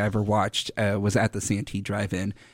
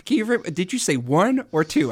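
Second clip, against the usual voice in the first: higher, robotic phone menu voice; mock automated voice; 7 semitones higher than usual. Mocking automated phone system.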